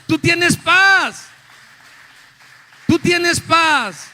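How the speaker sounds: loud, high, exultant proclamation with drawn-out words; preaching at full force. Real, not acted. Preacher assures congregation of peace in God, full-force preaching. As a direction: cry it out to the whole church, stretched and forceful.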